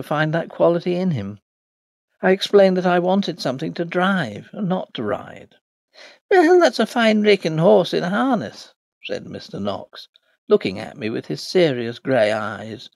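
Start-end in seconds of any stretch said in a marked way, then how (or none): 6.3-8.7 light Irish brogue. Acted. Landlord praising the horse.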